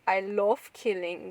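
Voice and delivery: imitated German accent, drawn out. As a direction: slowly mimic a German-accented English. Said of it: "that German accent".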